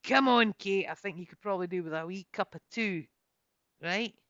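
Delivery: loud, friendly call across the camp; hailing Kate from the fireside, loud and friendly; calling over. Acted. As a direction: call her over cheerily. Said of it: "calling me over".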